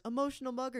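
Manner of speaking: excited high-pitched answer; Jaden. Retold or imitated. Jaden naming his favorite album, excited. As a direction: blurt it out high, like a thrilled fan. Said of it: "seen Jaden get that excited about something".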